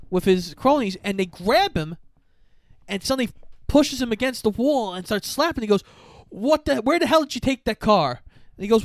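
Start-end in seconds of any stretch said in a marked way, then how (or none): 6.3-8.2 raised-pitch retold interrogation; acted angry demand. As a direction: demand an answer, playing the furious boss. Acted interrogation while slapping him.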